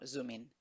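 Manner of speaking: "zoom in" run together as a single word, zoo-min; joined as one. Shown as a demonstration. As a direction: link the M of "zoom" to "in". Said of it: "como que si fuera una sola palabra". ("zoom in" junto, como una sola palabra)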